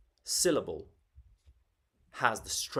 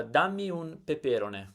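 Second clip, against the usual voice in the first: peperone stressed on the second "pe" in the phrase; wrong stress; 4 semitones higher than usual. Shown as a demonstration. Teacher showing a request that makes no sense, misplaced stress. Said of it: "That doesn't make sense".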